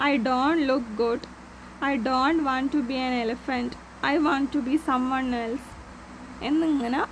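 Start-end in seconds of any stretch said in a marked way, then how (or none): 0.1-5.6 put-on slow, careful reading to children; measured classroom story reading; story read-aloud. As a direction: read each word out slowly for young learners.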